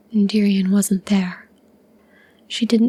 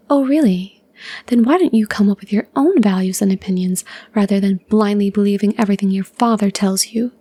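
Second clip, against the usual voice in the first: angry retort. Acted. Lyra retorts angrily to brother.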